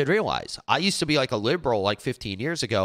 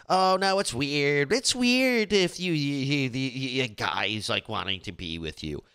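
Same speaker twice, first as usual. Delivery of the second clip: mocking objection; 2 semitones higher, slower than usual. Mocking women put off by interested guys, mock dismay. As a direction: imitate someone finding it all weird.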